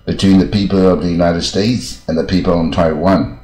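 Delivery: slow, deliberate reading with breaks between phrases; slow, clear read-aloud. Shown as a demonstration. Teacher reading a law aloud for English learners, slow and clear. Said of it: "我这速度念不要快，以清楚为准嘛".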